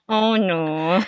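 laughing. Real, not acted. Laughing at awkward memory.

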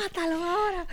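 laughing caricature of a Castilian TV dub; hammed-up Spain Spanish accent. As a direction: ham up a Spanish-from-Spain dubbing actor. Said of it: "doblada en español de España".

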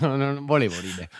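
giggling through the words; trying not to laugh; breaking character giggling. Real, not acted. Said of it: "Cioè, poi dici a me".

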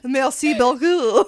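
slow, hammed-up French accent; playful fake French thank-you. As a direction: draw it out in mock French. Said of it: "give me your best French accent".

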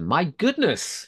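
a slow, high, hammed-up American accent; reading a viewer's quote in a mock American accent. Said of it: "I adopted an American accent".

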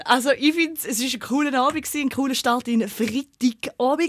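lightly put-on radio host voice. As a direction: announce it like a chirpy radio host. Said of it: "meine Radiostimme angemacht".

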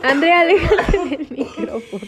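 talking through laughter; laughing. Real, not acted. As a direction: laugh while you say it. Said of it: "Güey, tienes parvovirus".

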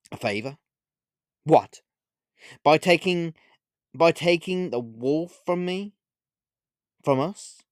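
halting, wounded questions; tearful. A narrator's reading. Olivia reels at the witch's claimed favour, tearful. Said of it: "replied Olivia in tears".

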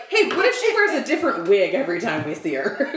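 eager, animated pitch through a laugh; excited pitch. Retold or imitated. Actress pitching wig idea to the team, excited. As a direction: pitch a fun idea with amused zest.

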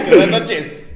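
shouted greeting. Retold or imitated. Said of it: "el acento golpeado".

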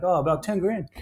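casual imitated Kiwi accent. Athlete naming his price to the backer, light Kiwi accent. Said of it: "in his Kiwi accent".

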